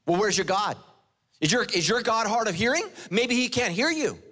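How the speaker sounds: high, taunting questions with feigned concern; mocking. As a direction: taunt them as a mocking prophet. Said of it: "Elijah starts mocking them".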